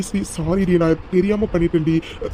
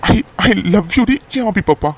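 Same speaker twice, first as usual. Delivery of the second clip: tender confession; 4 dB louder, slower than usual. Acted.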